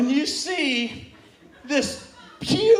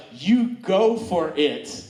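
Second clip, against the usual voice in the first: Wonder Woman; 7 semitones lower, much slower than usual. Retold or imitated. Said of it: "Wonder Woman is like".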